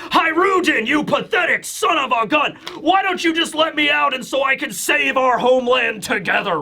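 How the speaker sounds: hammed-up angry yell; mock shout. Loki yelling at Hiruden to let him out, mock shout. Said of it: "Loki is shouting his head off".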